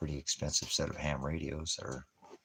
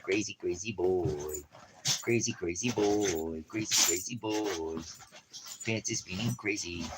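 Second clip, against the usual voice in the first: singsong pet talk; 3 semitones higher, slower than usual. Real, not acted. Singsong to the dog.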